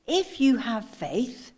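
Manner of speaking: slow, deliberate "if you have faith"; stress on have. Shown as a demonstration. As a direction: stretch "if you have", leaving it open. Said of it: "I want you to get the inflection in my voice".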